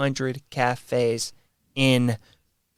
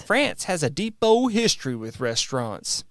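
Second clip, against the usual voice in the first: put-on French accent. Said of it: "you like my French accent?".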